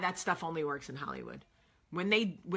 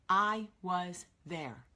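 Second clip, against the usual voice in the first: slow; much slower than usual. Shown as a demonstration.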